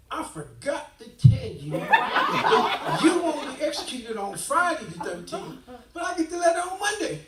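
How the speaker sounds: reading it out through real laughter; bursting into laughter mid-quote; laughing. Real, not acted. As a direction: laugh your way through the letter. Laughing while reading lawyer's letter.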